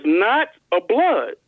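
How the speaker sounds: slow, stressed on blood; slow emphatic rereading; read again slowly. Shown as a demonstration. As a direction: hammer it home slowly. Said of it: "read it again".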